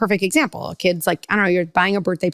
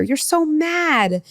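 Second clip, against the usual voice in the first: mock validation; 9 semitones higher, much slower than usual. It helps for a kid to hear.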